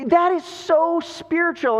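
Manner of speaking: high, admiring wife voice; gushing wife. Retold or imitated. Wife praises her husband's generosity, gushing.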